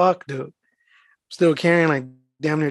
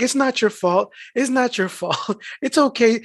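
imitating a sympathetic customer, higher-pitched; lightly voiced soothing reassurance; mock consoling; 5 semitones higher than usual. Customer comforting her mail carrier, mock consoling.

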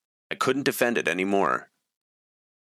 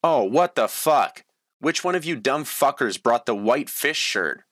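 screaming; 6 semitones higher than usual. A narrator's reading. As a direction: scream it at the top of your lungs. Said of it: "Jewel screamed at the top of her lungs".

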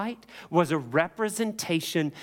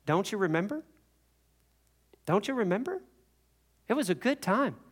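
higher, lightly voiced tempter; acted enticing voice, pitched up; coaxing devil; 5 semitones higher than usual. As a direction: coax sweetly, like a devil luring someone back. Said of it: "But the devil says".

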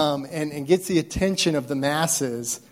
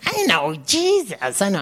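evil spirit voice; 5 semitones higher, 4 dB louder than usual. Shown as a demonstration. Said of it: "should I do an evil spirit voice?".

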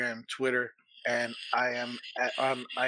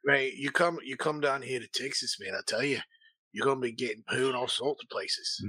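bad Texas accent. Inviting listeners down to Texas, in a bad Texas accent. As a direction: put on a clumsy Texas accent. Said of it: "That's the worst accent".

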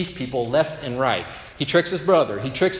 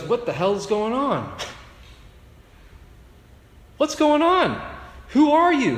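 outraged yell; 10 semitones higher than usual. Retold or imitated. Esau bursts in, shouting at his father in shock. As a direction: burst in demanding answers.

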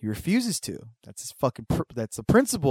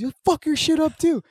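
high mock threat; 6 dB louder than usual. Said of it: "he's just yelling shit".

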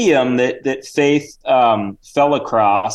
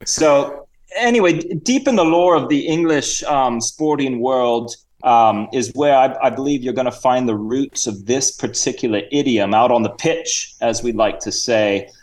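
hammed-up English gentleman. Reginald explains cricket to the hosts, in a put-on Cockney-Australian voice. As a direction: play the jolly visiting chap.

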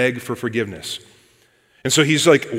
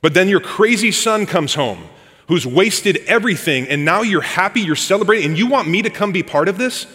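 put-on indignant older son; 3 semitones higher than usual. Preacher voicing the older son complaining to his dad, rising indignation. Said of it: "he says to his dad".

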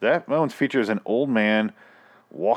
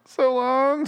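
high sing-song sign-off; 3 dB louder than usual. Acted. Sign-off catchphrase.

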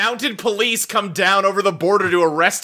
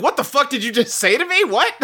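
mock-outraged disbelief, pitched up; laughing, incredulous retort pitched high; retold disbelief; 6 semitones higher than usual. Host retelling reaction to a Canadian word, mock disbelief. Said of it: "I was like".

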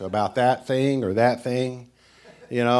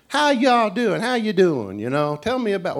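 friendly Tennessee host; 9 semitones higher, 4 dB louder than usual. Retold or imitated. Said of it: "they are nice to you".

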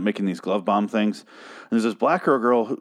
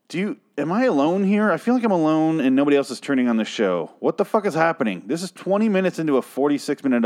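real exasperation, pitched up; incredulous, higher-pitched rant; exasperated disbelief; 6 semitones higher than usual. Real, not acted. Ranting that nothing happens in episode.

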